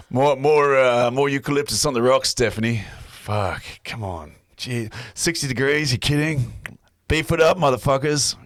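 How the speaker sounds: lightly voiced gruff tough guy; gruff sauna guy. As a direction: play a cocky gruff bloke demanding heat. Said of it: "I broke character".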